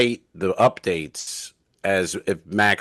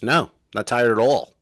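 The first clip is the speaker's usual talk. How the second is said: annoyed; 3 semitones higher than usual. Retold or imitated. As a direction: retell her annoyed denial. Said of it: "Very annoyed".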